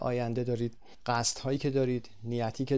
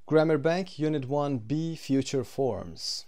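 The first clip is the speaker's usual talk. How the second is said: slow title reading; 2 semitones higher, 3 dB louder, much slower than usual. Shown as a demonstration. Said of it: "announcing the section title".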